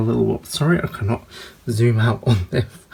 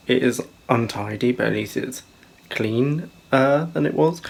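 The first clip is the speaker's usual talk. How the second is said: mouth full. Real, not acted. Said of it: "I've got a mint imperial in my mouth".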